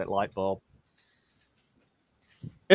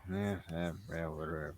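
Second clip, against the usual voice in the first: much softer, lower brush-off; dismissive mumble; 8 semitones lower, 14 dB quieter than usual. Acted. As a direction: wave off the goblins muttering. Drunk brushing off goblin.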